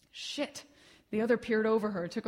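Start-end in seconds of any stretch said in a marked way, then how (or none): 0.1-0.6 breathed out under the breath, voiceless; a hushed oath so she won't hear; whispered curse. Acted. Paramedic reacts under his breath.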